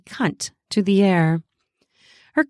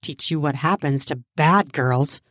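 lightly lowered commanding voice; dominant lover; 5 semitones lower than usual. Acted. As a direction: drop low for a teasing threat. Narrator voices dominant lover's threat.

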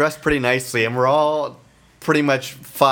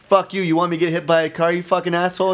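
fast, higher-pitched angry comeback; mock outrage, rushed and pitched up; retold angry yell; 5 semitones higher, faster than usual. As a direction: imitate an indignant biker arguing back. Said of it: "they're yelling at each other".

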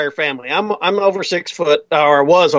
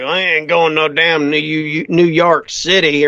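picante commercial cowboy; slower than usual. Retold or imitated. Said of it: "like I'm listening to the picante sauce commercial".

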